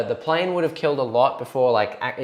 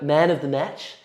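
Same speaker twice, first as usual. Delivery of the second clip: clearer, more careful repeat of the question; slowed down. Real, not acted. Host repeats question for puzzled opponent, slowed down. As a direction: space out the words so they land. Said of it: "Maybe I say it too fast".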